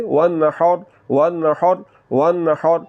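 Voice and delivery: وَالنَّحْرِ with the ha from mid-throat; Quranic recitation. Shown as a demonstration. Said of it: "کیسے؟".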